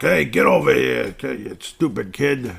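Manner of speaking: loud hammed-up New York tough; East Coast accent. Podcaster parodying a New Yorker scolding a kid, East Coast accent. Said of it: "East Coast accent".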